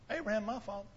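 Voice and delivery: very soft imagined claim; soft, understated acting-out; hushed retold quote. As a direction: voice the quote quietly, well under preaching level. Imagined Jew addressing Jesus, hushed.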